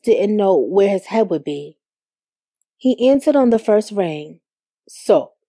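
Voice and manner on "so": low, cool one-word answer; cold. A narrator's reading. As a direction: answer coldly in a lower voice. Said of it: "he said cold".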